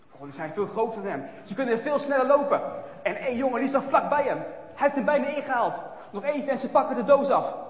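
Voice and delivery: loud, high and urgent; breathless chase narration. A narrator's reading. Narrator racing through the chase, excited. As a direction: tell it like you're running too.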